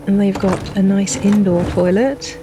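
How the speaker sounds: property tour sales pitch; selling the house to a buyer; real estate agent. Acted. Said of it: "I sound like an estate agent".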